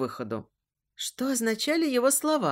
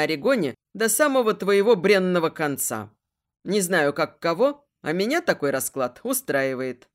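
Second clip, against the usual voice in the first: gloating villain; 4 semitones lower than usual. Acted. Villain gloats over prisoner.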